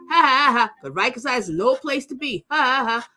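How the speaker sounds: high, gloating ha ha ha; mocking laugh. Real, not acted. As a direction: laugh in his face. Mocking laugh after taunts.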